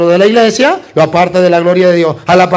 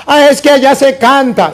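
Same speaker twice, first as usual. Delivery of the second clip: a hint of a higher, whiny objector; mock objector; 5 semitones higher than usual. Priest imitating a Catholic who left, mildly mocking. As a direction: lightly voice someone making excuses. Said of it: "¿Qué voy a hacer en la secta protestante?".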